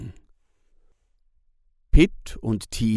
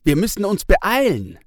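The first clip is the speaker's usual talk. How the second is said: put-on high, urgent kid voice; hurried boy, higher and louder; boy Pitt; 11 semitones higher, 6 dB louder, faster than usual. A narrator's reading. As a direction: rush the words like a boy already running. Pitt hurrying away.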